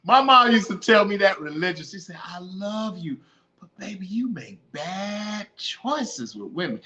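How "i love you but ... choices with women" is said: softer, drawn-out motherly admonishment; loving mother warning. Retold or imitated. Mother cautions son about women, tender warning. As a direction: imitate a mother gently cautioning her son.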